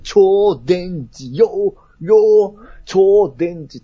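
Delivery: shouted robot attack names; screaming attack name. Retold or imitated. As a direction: yell the attack call like an anime hero. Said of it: "技名を叫んでんねん".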